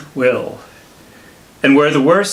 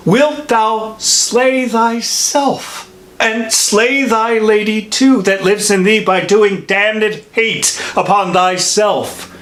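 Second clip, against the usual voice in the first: raised, insistent questioning; impassioned reproach; 4 semitones higher than usual. Acted. Friar to man bent on killing himself, reproachful. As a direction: demand answers in a high, heated voice. Friar rebukes self-destruction.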